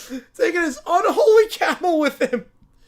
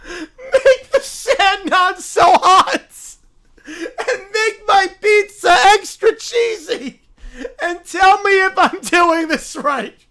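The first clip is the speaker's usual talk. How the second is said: mock prayer. Pilgrim begging Jesus in the desert, hammed-up pleading. Voicing a praying game character.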